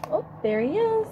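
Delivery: high delighted "oh, there he is"; excited discovery. Acted. Reading to children, finding the caterpillar again: excited. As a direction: let the find pop out for the kids. Spotting caterpillar in picture book.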